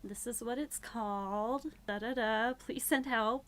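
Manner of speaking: bright fake-casual chatter that ends urgent; playing it off. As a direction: sound breezy while begging for help. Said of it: "she's trying to play it off".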